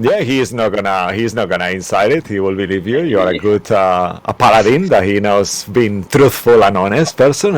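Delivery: a low, steady telling; low, measured storyteller voice. Acted. GM voicing narration lower.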